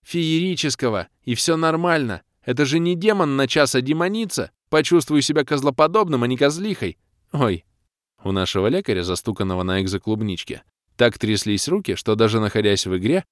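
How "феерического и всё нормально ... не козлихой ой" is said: high, whiny Феерического stressed on the е-е; wailing doctor correcting. Acted. The doctor corrects the hero with Феерического, high and whining. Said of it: "запричитал док".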